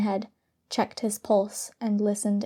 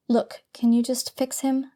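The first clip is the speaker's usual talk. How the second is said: pleading; 3 semitones higher than usual. Acted. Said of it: "Victoria pleaded".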